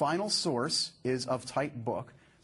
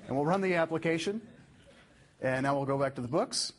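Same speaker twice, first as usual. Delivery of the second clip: mock-energetic retake after a flat first try; rallying the audience. Shown as a demonstration. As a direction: wake the room up with RUN. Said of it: "You are all sleepy".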